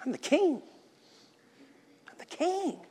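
strutting king, pitched high and soft; a hammed-up boasting king; mock proud king. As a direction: preen like a self-crowned king. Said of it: "we can put the crown on".

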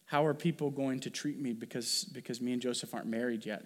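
quiet, mildly worried inner questioning; understated acted worry. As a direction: think aloud softly as an anxious Mary. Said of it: "might be a worry of".

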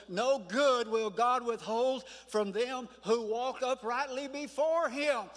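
declaimed scripture. Real, not acted. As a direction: proclaim the verse slowly to the congregation.

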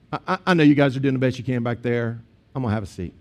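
imagined peaceable reply, easing off; calm conciliation. Acted. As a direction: back down gently, ending low and quiet. Imagines the man backing down.

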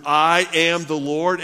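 I am the Lord, proclaimed loud, high and slow; declared. Retold or imitated. Preacher booming God's opening words, proclaiming. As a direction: proclaim it as a mighty decree. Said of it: "He begins his whole response".

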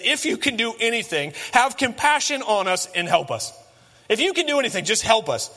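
a retold father begging for help, voice lifting up; mildly voiced plea for help from a desperate father; pleading father. A desperate father begging Jesus to help, pleading. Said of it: "this father's basically pleading".

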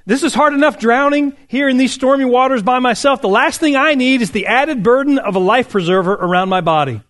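sputtering refusal shouted over the waves; mock shout. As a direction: play the drowning man, half-joking. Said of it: "only to hear him shout back, sputtering".

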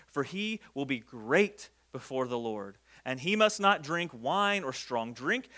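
solemnly paced reading aloud; scripture reading. A narrator's reading. Reads scripture aloud to congregation.

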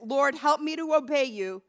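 earnest pleading prayer, repeated like a plea; sample prayer. Shown as a demonstration. Pastor shows the congregation how to pray, pleading prayer. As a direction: pray it as a model for the flock.

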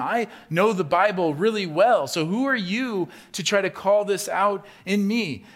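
loud, high, offended protest; a mock-indignant shout of who do you think you are; indignant churchgoer. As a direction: puff up like a proud old member of the church. Mocking a defensive proud churchgoer.

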